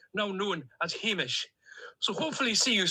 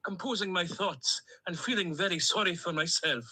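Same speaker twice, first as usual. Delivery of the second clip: put-on a duck character with a lightly held Stornoway accent; cheerful Stornoway lilt, a duck on a voice message. Duck on a voice note to his owner, in a Stornoway accent. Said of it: "in my Stornoway accent".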